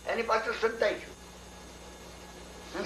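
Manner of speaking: slow, breathless whisper; hushed hiding. Acted. Hiding behind the rock.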